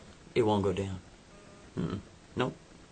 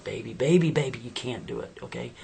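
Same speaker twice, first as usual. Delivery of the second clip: pleading; 3 dB louder than usual. Acted. Boyfriend pleading with her.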